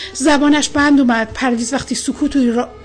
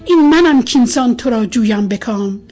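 poem recitation; 3 semitones lower than usual. A narrator's reading. Recites a love poem aloud.

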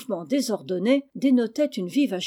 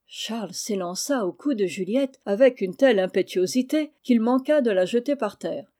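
ordinary delivery, nothing marked

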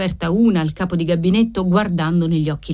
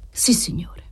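a breathless, submissive yes; humble whisper; 4 dB quieter than usual. Acted. Debtor whispering humbly to the usurer. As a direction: whisper it meekly, eyes down. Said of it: "disse l'assistito umilmente".

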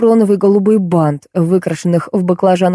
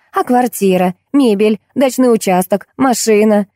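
a hint of a shrewd, pitched-up wife; lightly voiced scheming wife; 3 semitones higher than usual. Wife explaining to Lampa why she won't divorce, lightly voiced and shrewd.

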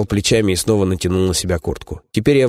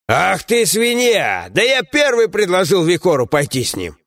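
a lightly raised, scolding comrade's voice; gruff dwarf companion; 10 semitones higher, slower than usual. Acted. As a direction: grumble at a foolish friend, voiced a bit higher.

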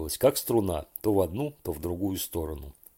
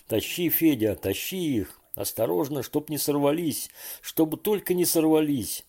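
higher and higher, begging; pleading lament; 6 semitones higher than usual. A narrator's reading. Borya begging Fedya not to lose the fish, anxious pleading. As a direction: plead anxiously that they don't slip off. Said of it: "умоляюще причитал Боря".

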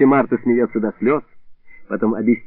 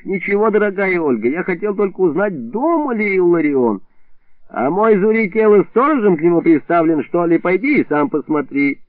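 softened voice; 6 semitones higher than usual. Acted. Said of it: "сразу же смягчил голос".

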